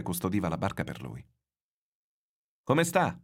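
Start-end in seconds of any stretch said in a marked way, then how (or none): 2.6-3.2 high, louder call across the beach. A narrator's reading. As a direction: shout the question to the boy. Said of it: "gridò un pescatore".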